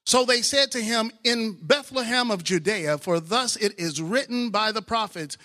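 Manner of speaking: slow, solemn reading of verses; scripture reading. Acted. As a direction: read the passage with weight.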